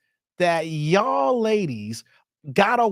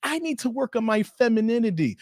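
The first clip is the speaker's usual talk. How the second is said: higher, mock woman's admission; 3 semitones higher, 4 dB quieter than usual. Host mocking women on dating show, higher. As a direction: parody a woman, lightly lifted. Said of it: "But women will come out saying".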